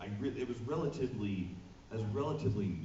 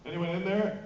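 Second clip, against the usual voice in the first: guard calling; 9 semitones higher, 5 dB louder than usual. Retold or imitated. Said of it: "security guard pound".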